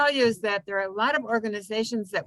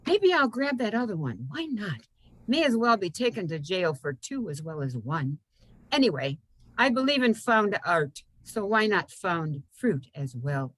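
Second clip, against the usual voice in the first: lightly acted fruit picker; lilting recital that drops at phrase ends; poem's human voice; 3 semitones lower than usual. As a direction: reason it out playfully in verse.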